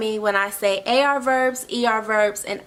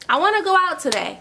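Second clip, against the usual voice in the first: higher and faster, mock eager; 5 semitones higher, faster than usual. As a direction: say it like you can't wait to go. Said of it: "I want to go out today".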